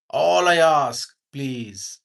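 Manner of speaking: gentle plea. Retold or imitated. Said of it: "that was a statement".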